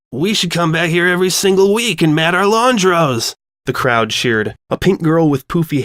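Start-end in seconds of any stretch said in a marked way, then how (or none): 0.1-3.3 a hint of a voice shaking from the machine; vibrating voice. Flash Sentry addressing everyone atop a washer, wobbly voice. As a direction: talk while standing on a running washer. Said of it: "made his voice sound funny".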